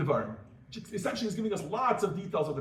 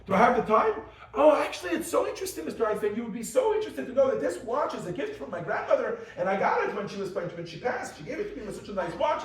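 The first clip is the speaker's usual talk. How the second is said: mildly voiced rambling bore, brighter at the start; idiotic rambler; 3 semitones higher than usual. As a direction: chatter on about the watch as if nothing matters. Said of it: "says something idiotic like".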